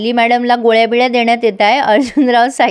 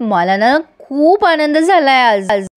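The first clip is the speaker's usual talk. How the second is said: slow, smiling mother's line; smiling, happy; slower than usual. Retold or imitated. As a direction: say it slowly with a smile, pleased. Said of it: "मग smile करताय आणि म्हणतात". (हसत, हळू आनंदाने)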